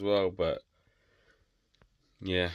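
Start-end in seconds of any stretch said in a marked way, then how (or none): 2.2-2.5 said through a yawn. Real, not acted. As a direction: yawn while you say it. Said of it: "I'm literally yawning".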